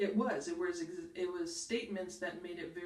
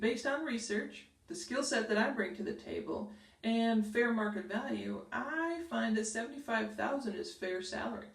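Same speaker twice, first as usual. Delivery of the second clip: firm and steady; confident salary pitch; strong, confident; 3 semitones higher than usual. Shown as a demonstration. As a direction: state it as a settled fact. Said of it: "the stronger version would be".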